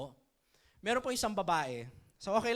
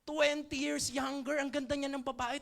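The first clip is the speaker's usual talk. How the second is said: excited; 5 semitones higher, slower than usual. Retold or imitated. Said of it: "excited siya".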